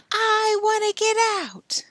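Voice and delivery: high whispered plea; faint plea. Acted. Billy pleading from the closet, whispered. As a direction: call out faintly.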